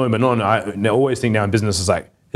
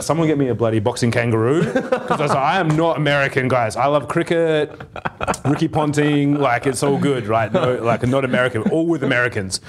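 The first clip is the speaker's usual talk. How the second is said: a put-on Australian accent, slightly higher and laughing through it; mock Australian accent; 4 semitones higher than usual. Speaker in Bangladesh pretending to be Australian, in a mock Australian accent. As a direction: ham up an Australian accent to dodge being taken for American. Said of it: "trying to speak with an Australian accent".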